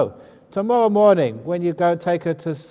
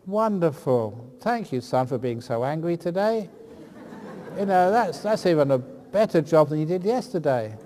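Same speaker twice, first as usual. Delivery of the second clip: mild mock praise. Shown as a demonstration. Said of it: "So tell your kid".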